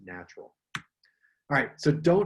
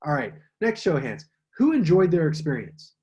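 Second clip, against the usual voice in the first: show-of-hands prompt; 2 semitones higher, 5 dB louder than usual. Shown as a demonstration. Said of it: "you should be like".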